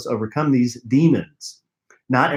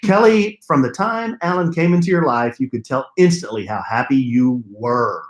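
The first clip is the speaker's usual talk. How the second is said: "were" pushed with a knowing lean; stress on were. Acted. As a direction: lean hard on "were", teasing. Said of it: "You know why you emphasize were".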